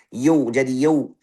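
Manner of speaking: "yau" slurred towards "yo"; fathah mixed with dhamma. Shown as a demonstration. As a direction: round the a of "yau" too early. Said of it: "Fathahnya campur sama dhamma".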